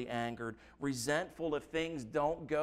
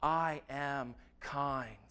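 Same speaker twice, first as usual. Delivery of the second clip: voice of God; slower than usual. Acted. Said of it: "God looking down upon us and saying".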